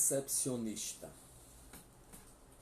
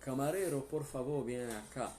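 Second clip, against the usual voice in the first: calling across a restaurant, raised; calling a waiter; 3 semitones higher, 4 dB louder than usual. Retold or imitated. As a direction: call the waiter over, louder. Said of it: "se você tá num restaurante".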